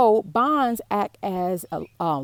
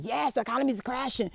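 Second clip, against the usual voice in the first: mock gleeful; 5 semitones higher than usual. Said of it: "multimillionaires and billionaires excited".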